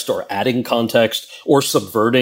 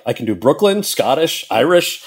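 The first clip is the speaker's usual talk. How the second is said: cheeky offer; 7 semitones higher than usual. Retold or imitated. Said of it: "And I said".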